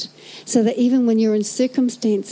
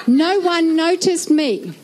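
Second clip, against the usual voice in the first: mock sulky whine; 4 semitones higher, much slower than usual. Mock sulking church member.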